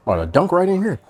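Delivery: laughing. Real, not acted. Delighted by the dip.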